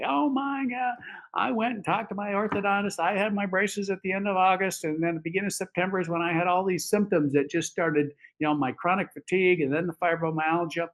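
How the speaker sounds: high-pitched, amazed retelling of her phone call; imitated astonished patient. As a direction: act out her excited realization, pitched well up. Acts out patient's astonished callback.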